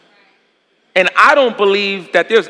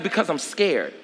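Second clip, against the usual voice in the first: put-on scared child; 4 semitones lower, 10 dB quieter than usual. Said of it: "And he said".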